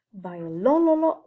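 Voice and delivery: Biololo- drawn out slow and loud, leaning on LO; stress before the suffix. Shown as a demonstration. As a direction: stretch Biololo- out, searching for the stress. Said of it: "Déplacement de l'accent juste avant le suffixe fort".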